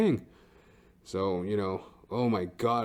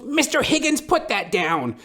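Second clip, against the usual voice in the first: much higher sing-song call; lady calling the dog; 13 semitones higher, 4 dB louder than usual. Retold or imitated. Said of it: "She goes".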